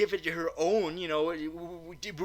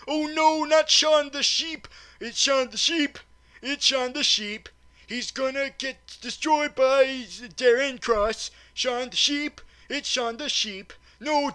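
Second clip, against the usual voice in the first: higher, louder mock-distraught pleading; mock anguish; 8 semitones higher, 4 dB louder than usual. Reviewer fakes distress as villain shrinks Shaun the Sheep, high mock wail. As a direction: wail in overdone despair for the sheep.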